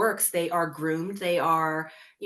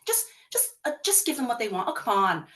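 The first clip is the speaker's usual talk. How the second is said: put-on higher, sweet brush-off to a child; coaxing parent; 4 semitones higher than usual. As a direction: wave off the bullied kid's complaint. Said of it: "they're saying".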